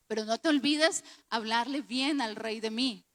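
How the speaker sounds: lightly acted plea with a falling end; understated request to the cupbearer; José's request. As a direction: quote José asking a favour, ending firmly down.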